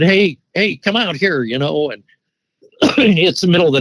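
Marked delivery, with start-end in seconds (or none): 0.0-1.4 higher-pitched mock holler, not full volume; retold holler. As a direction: imitate calling someone out of the house. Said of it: "I holler to him".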